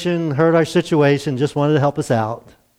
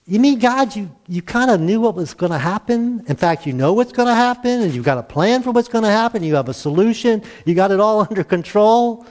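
mock surprised realisation; 5 semitones higher than usual. Acting out Elijah's surprised realisation.

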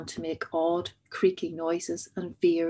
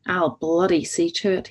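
through clenched teeth; 8 dB louder than usual. A narrator's reading. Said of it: "he said through clenched teeth".

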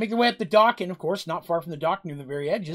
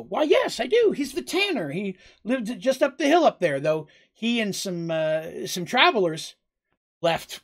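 much higher, eager innkeeper voice; 4 semitones higher than usual. Acted. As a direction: chirp it out, keen to help the pirate. Innkeeper answers captain, GM voiced.

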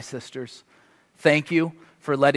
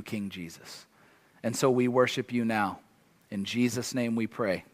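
prayer. Acted. Closing prayer over the church.

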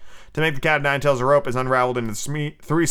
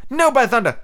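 loud, high pirate protest; defiant refusal; 12 semitones higher, 5 dB louder than usual. A narrator's reading. Starkey refusing the captain, defiant cry.

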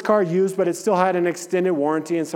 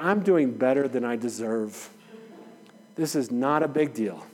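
softer, lower, calming himself down; calm self-talk; 4 semitones lower, 5 dB quieter than usual. Retold or imitated. Pastor retelling his inner talk while waiting, calm and quiet. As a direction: talk yourself down gently, letting it go.

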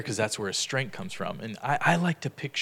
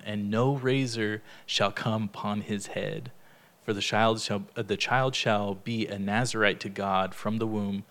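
scripture reading. Acted. Leader reads Judges aloud to the study group, measured. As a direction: read the passage deliberately to the group.

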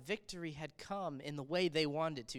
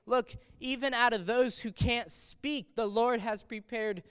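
paraphrasing Jesus; 4 semitones higher, 5 dB louder than usual. Retold or imitated. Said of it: "he's saying".

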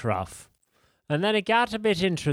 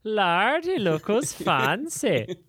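put-on Irish accent; 5 semitones higher, slower than usual. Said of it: "such a bad Irish accent".

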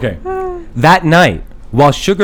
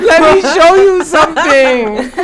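ghost voice; 12 semitones higher, 4 dB louder than usual. Acted. Christmas lady repeats.

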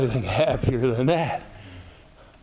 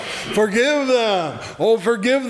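crying out; 8 semitones higher than usual. Acted. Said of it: "they cry".

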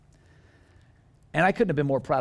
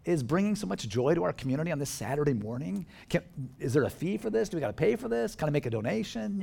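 higher-pitched questioning voice; curious townspeople; 6 semitones higher than usual. Retold or imitated. Curious neighbors asking about the church, lightly voiced in higher questions. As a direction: ask like intrigued, puzzled onlookers. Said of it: "They were saying".

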